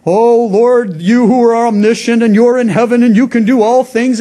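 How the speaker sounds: mock the grand, showy way people pray to God; pompous formal prayer. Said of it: "Why are you talking like that?".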